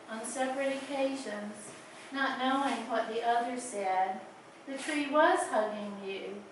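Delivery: measured poetry reading with pauses between phrases; lingering on line endings; poem reading. Acted. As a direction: read your poem aloud in unhurried, deliberate phrases. Reads own poem aloud.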